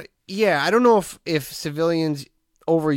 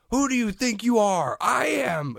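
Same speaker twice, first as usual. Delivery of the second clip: much higher mock victory yell; imitating his yell; 8 semitones higher, slower than usual. Bowler quoted, his higher victory yell. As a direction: ham up the bowler's triumphant yell. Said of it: "he just starts yelling stuff".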